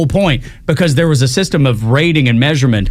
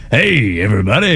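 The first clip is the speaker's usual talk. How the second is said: radio DJ voice; 2 semitones lower than usual. Retold or imitated. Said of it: "I'm just like".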